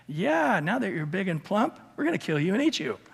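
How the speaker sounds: lightly voiced farmers teasing the cow, fast; mock farmer's glee. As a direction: toss it off like a cheerful butcher. Farmers answer the fattened cow.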